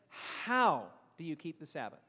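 ordinary talk

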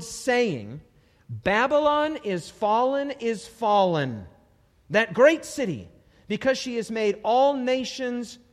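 loud, slow, booming proclamation of the verse; preaching scripture reading. Acted. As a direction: proclaim it like a prophet from the pulpit. Reads scripture with force.

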